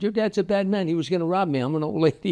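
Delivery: put-on feisty old lady. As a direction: play the plucky old woman standing over the robber. Old woman scolds robber, consoles boy.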